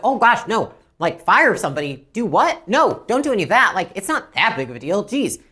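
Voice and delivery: acted alarm, hurriedly talking them down; mildly panicked protest; alarmed backpedaling. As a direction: backpedal like a startled customer. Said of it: "almost backpedal on what they were saying".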